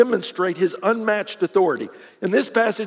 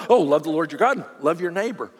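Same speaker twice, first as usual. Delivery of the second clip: "Love the Lord your God" tossed off, lower and casual; offhand recital; 3 semitones lower than usual. Retold or imitated. Churchgoers reciting a familiar verse, offhand. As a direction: rattle it off like an old habit. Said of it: "it rolls off our tongue".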